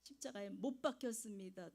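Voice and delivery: 못 pushed out firmly in a Gyeongsang lilt; copied Gyeongsang stress. Retold or imitated. Repeating the assignment at home, stressing 못 like the pastor. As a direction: mimic the pastor's weight on 못. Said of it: "액센트도 따라했어요".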